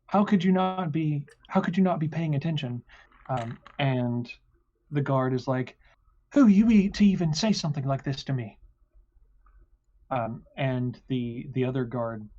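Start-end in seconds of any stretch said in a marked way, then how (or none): 0.1-2.8 put-on a touch higher, reproachful boy; lightly voiced boy scolding the driver. 6.3-8.6 sharp, higher, louder retort; guard snapping back at the boy; indignant guard. Acted.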